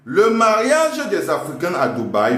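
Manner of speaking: dictating, rising. Shown as a demonstration. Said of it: "À la ligne".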